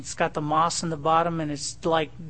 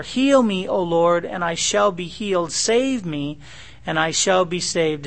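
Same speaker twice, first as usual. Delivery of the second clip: crying out to God. Retold or imitated. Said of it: "is the cry of Jeremiah".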